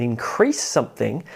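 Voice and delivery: increase as a verb, weight on CREASE; inCREASE something, light first syllable; stress on second syllable. Shown as a demonstration. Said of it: "stress falls on the second syllable".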